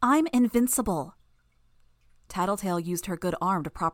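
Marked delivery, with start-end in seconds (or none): 0.0-1.1 loud, muffled through a cloud. A narrator's reading. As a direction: boast it from behind a swarm. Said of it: "Glory Girl's muffled voice".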